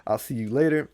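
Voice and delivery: high, loud happy sigh then thanks; stuffed and pleased, thanking the host; full-bellied trickster cheer; satisfied Anansi. Acted. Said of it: "It's like".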